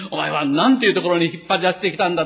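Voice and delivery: quick, indignant mock reproach; hammed-up blame, a little rushed; mock angry accusation. Israelites scolding Moses, mock indignant. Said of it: "とですね、憤って".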